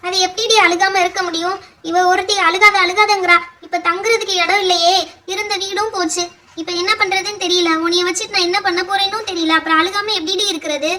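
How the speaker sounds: tearful, helpless lament; acted crying. Mother answers daughter who begs her to stop, crying. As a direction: lament through tears to your child. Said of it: "ஏம்மா இப்படி விடாம அழுதுட்டே இருக்கீங்க".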